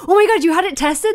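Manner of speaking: high, loud gushing imitation; mock hyper enthusiasm. Imitating Kevin Owens backstage, hyper enthusiastic gushing. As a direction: gush like an overexcited wrestler.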